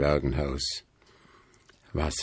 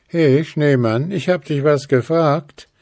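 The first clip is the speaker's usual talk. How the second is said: a bit bolder; 7 semitones higher, 4 dB louder than usual. A narrator's reading. Willi presses the silent snowman, bolder. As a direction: push a little harder. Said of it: "versuchte es Willi nun ein wenig forscher".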